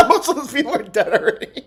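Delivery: fast, laughing echo; laughing repeat. Real, not acted. Streamer repeats Trump's joke, laughing. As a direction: chuckle through it.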